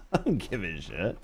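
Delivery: laughing it off. Real, not acted. Repeats line with a laugh.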